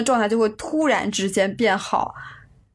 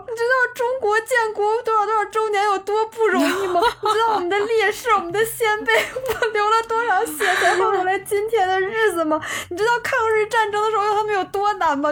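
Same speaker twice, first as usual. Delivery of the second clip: high, half-laughing mock sob; retold crying rant; 10 semitones higher than usual. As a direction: replay the tearful patriotic outburst with a laugh. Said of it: "一边哭一边跟他说". (边哭边笑地模仿当时的哭诉)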